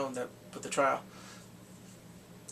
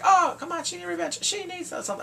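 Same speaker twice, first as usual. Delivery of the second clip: mock snapping; 13 semitones higher, 3 dB louder than usual. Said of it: "she snaps and starts talking like".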